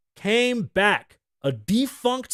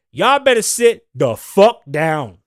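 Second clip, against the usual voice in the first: slow menacing warning; 7 dB louder, slower than usual. Retold or imitated. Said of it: "He said".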